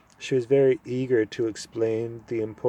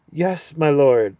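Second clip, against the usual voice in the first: bawling into the trumpet; 4 semitones higher, 7 dB louder, slower than usual. Acted. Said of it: "bawled Eustace into the trumpet".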